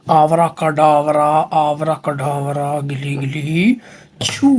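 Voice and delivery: slow, low chanted magic spell; kids party magician. Pretend. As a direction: intone the magic words slowly like a stage magician. Chanting magic words over matchbox.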